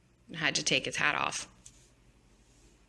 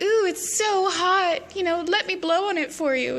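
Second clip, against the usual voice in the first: flirty Alice; 12 semitones higher, 4 dB louder than usual. Retold or imitated. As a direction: drag it out flirtatiously. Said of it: "she's like".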